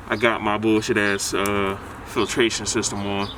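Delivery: talking through a face covering; muffled through wet shirt. Real, not acted. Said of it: "Sorry if I sound a little muffled".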